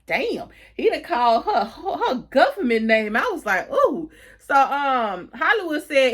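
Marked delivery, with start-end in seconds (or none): 0.1-3.1 laughing reaction. Real, not acted. Reacting to the show while retelling. 3.7-4.1 impressed ooh. Real, not acted. Reacting to the scene in the show.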